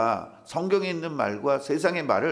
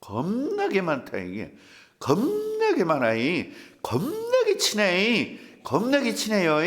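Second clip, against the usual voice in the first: Jeolla drawl, 겁나게 stretched high and slow; drawn-out Jeolla 겁나게 with a sing-song lift; Jeolla dialect demo; 5 semitones higher than usual. Shown as a demonstration. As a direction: show off the Jeolla way of saying 겁나게. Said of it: "호남 분들하고 이십 년을 지냈는데도 겁나를".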